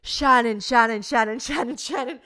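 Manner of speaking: loud, repeated name to cut her off; urgent interrupting. Retold or imitated. James stops his friend's rambling plan, urgently interrupting. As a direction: rattle off the name in exasperation.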